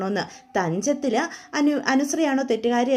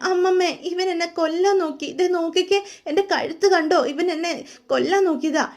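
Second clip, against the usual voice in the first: higher, put-on weepy plea; fake tearful complaint; 4 semitones higher than usual. Wife fake-crying to grandmother about her husband, put-on weepy plea. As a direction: pretend to sob out the accusation. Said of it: "അവരുടെ മുന്നിൽ നിന്ന് കരയാ".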